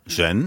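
"Gêne" with the voice climbing through the syllable; rising tone. Shown as a demonstration. Sinologist corrects the host's pronunciation, rising tone. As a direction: model "Gêne" as a rising second tone. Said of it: "La, la voix monte".

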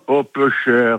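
light Marseille lilt on Oh, peu cher; a touch of Marseille accent; Provençal exclamation. Retold or imitated. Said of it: "je dis souvent".

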